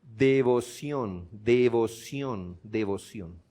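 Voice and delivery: devoción dicho muy despacio, sílaba por sílaba; slow, stressed word. Shown as a demonstration. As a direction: alarga "devoción" para que se oiga la raíz. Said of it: "¿Sí nota la palabra devocional?". (marcando "devoción" lentamente, apagándose al final)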